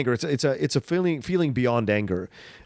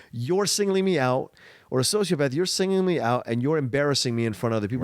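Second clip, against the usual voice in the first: psychopath's thinking. Retold or imitated. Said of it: "this is how a psychopath thinks".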